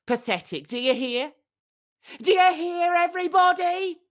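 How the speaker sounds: high, loud furious scream; furious yelling. Acted. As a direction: hurl it down at him for all to hear. Furious woman yelling from balcony.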